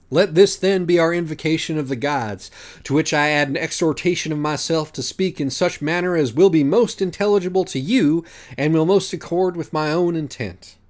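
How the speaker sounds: lightly voiced solemn judge reciting; pompous judge Minos. Minos opening the trial, lofty and formal.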